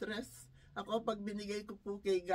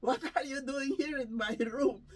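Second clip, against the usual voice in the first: mock indignant demand, higher than own talk; imitating a scolding client; 4 semitones higher, 4 dB louder than usual. Elderly client to caregiver caught in the room, imitated scolding. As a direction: put on a cranky, higher-pitched challenge. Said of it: "Sabi sa akin".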